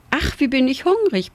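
high-voiced hungry mouse; piepsend. A narrator's reading. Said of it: "piepste Singe schön". (leicht piepsend, wie ein hungriges Mäuschen)

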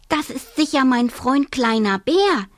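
eager little hare; lightly voiced hare. Hare tells the mother bear, lightly perky.

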